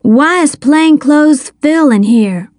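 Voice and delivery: put-on high, startled boy's question; yelping. A narrator's reading. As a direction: ask it in a mild yelp. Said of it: "Dale yelped".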